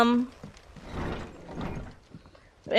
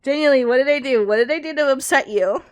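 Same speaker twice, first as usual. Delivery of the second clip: crying, pleading; 2 semitones higher, 5 dB louder than usual. Real, not acted. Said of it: "Oh, I'm still crying".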